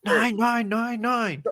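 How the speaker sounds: playful imitation of a screaming German clerk; mock German scream. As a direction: bark nein like a scary German shopkeeper. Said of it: "would scream at people in German".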